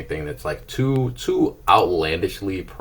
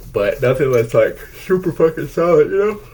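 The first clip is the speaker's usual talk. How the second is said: squeaky high voice; 11 semitones higher, 9 dB louder than usual. Acted. Voice climbs very high.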